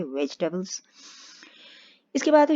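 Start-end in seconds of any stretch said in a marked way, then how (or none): 0.0-0.8 "वेजिटेबल्स" said as one smooth word, softly; blended in one go. Shown as a demonstration. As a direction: blend it all together in one breath. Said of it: "एक साथ कहने की कोशिश कीजिए". (पूरा शब्द एक साथ मिलाकर बोलिए)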